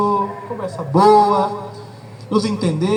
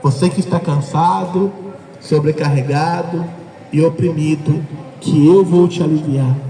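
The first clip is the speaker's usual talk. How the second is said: convite acolhedor; 3 semitones lower than usual. Pretend. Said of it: "é aquele que diz".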